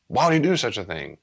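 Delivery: voicing an angry mourner; acted anger. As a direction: play the angry griever. Acted angry griever in dialogue.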